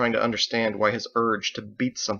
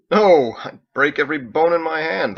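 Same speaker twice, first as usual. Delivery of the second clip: laughing; 6 semitones higher, 9 dB louder than usual. Acted. John laughing at the question.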